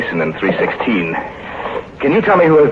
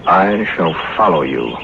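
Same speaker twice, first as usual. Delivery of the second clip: slow solemn reading; slower than usual. Acted. Reading the grim inscription aloud.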